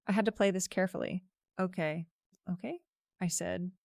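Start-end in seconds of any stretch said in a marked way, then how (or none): 1.6-2.8 brave sick voice. A narrator's reading. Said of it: "putting on my best "I'm a trooper," even when I'm dying voice".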